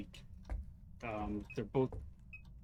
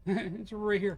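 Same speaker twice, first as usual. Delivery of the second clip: laughing slowly; 8 semitones higher, 4 dB louder, slower than usual. Real, not acted.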